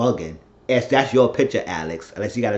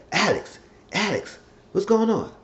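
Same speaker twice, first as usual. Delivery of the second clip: high-pitched urgent calling of a name; acted confronting; 10 semitones higher than usual. Man confronting Alex for answers, high urgent appeal. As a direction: call out to her, pitched well up.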